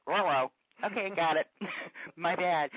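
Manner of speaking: loud playful dog voice owning up; the dog caught out, answering back loud and chastened; mock sheepish dog reply. Host voicing her dogs caught misbehaving, loud and sheepish.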